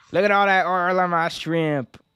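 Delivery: put-on New Orleans accent. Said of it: "when I do my New Orleans accent".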